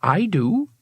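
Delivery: usual speaking voice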